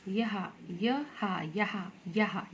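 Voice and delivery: यहाँ as ya-haa, slow and oral; denasalised, slowly repeated यहाँ; wrong, without nasal. Shown as a demonstration. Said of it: "ये गलत है".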